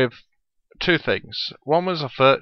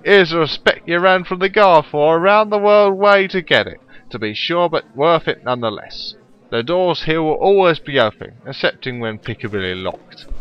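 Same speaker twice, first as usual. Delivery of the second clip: put-on German accent; 6 semitones higher, 7 dB louder than usual. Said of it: "meant to be a German thief".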